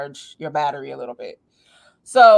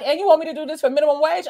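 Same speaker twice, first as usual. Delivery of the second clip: incredulous; 10 semitones higher, 6 dB louder, much faster than usual. Retold or imitated. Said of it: "And I was like".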